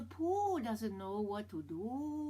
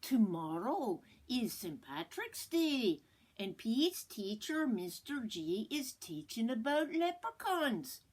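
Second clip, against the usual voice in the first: lively storybook read-aloud; reading to children. Acted. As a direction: read it out to the class. Reads picture book aloud.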